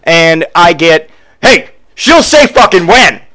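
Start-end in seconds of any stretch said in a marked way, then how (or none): 1.4-3.2 mock husband. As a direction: puff up and drag it out.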